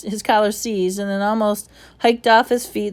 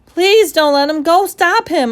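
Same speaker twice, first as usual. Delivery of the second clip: desperate plea; 9 semitones higher, 9 dB louder than usual. Acted. Omri begging.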